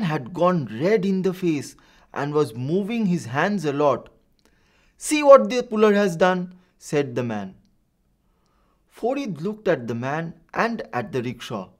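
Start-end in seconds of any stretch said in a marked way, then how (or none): 5.0-6.5 put-on high, loud, accusing shout at the boy; a red-faced man yelling his point. A narrator's reading. A shouting man demands of Farid, loud and high. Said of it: "The shouting man".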